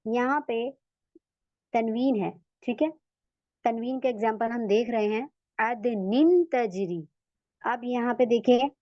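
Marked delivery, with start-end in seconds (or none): 5.6-7.0 अदनिन तजरी recited slowly, nasal hum held on the noon; slow recitation with ghunna. Shown as a demonstration. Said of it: "ये कैसे पढ़ेंगे इसको?". (अदनिन तजरी धीरे, बारीक गुन्ना के साथ)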